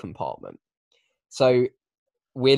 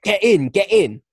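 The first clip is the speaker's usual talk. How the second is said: urgent, higher shouted order; retold shout; 8 semitones higher, 7 dB louder than usual. Driver shouting to the backpackers, urgent yell. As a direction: bark it out of a car window. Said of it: "she shouts from the driver's seat".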